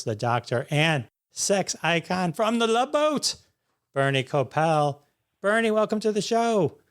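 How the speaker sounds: showman's build-up to the big name; talk-show host's grand welcome; over-the-top guest introduction. Acted. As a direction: pitch climbing on the big billing, pull everybody in. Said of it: "I wanted to go over the top".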